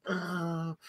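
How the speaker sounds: soft mock moan; imitated moan. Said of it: "she's making all these noises".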